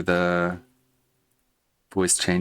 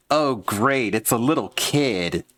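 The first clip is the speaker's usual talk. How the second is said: character voice; 4 semitones higher than usual. Acted. Voicing characters for recording.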